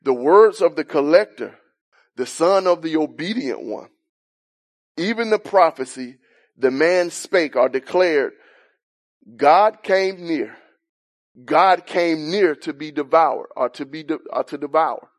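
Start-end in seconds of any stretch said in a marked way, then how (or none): 0.0-10.6 solemn scripture reading. Shown as a demonstration. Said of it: "It could be read". 11.4-12.5 slow proclaimed reading. Shown as a demonstration. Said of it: "It could be read".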